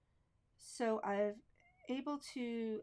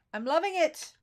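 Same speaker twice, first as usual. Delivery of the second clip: higher and louder, thrilled; delighted; 6 semitones higher, 11 dB louder than usual. Real, not acted. Crafter thrilled with her painted heart, excited. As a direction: burst out with real delight.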